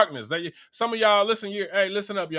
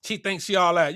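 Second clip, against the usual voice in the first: put-on catty hater girl; 5 semitones lower than usual. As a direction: sneer like a jealous girl in the corner. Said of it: "another little crew of females be mad".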